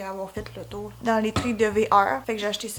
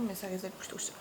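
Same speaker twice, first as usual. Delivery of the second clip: whisper; 4 semitones lower, 15 dB quieter, faster than usual. Real, not acted. Aside after decor talk.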